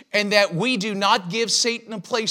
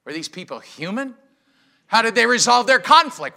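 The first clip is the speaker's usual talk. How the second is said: incredulous; 3 semitones higher, 5 dB louder than usual. Retold or imitated. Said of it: "that sounds like".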